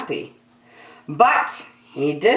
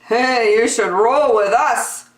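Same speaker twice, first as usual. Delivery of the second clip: zebras; 7 semitones higher, 5 dB louder than usual. Acted. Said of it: "said the zebras".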